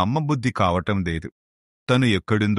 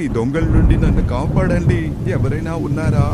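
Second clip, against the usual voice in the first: high, loud desperate cries for help; crying for help; 7 semitones higher, 4 dB louder than usual. Acted. Victim shouting for help as robbers attack, desperate loud cries. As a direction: scream for rescue from the thieves.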